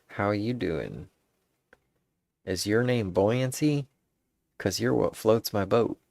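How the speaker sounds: slow, drawn-out charmer's opener; mock suave pickup line; smooth pickup line. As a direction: lay it on slow like a would-be smooth talker. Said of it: "I like that".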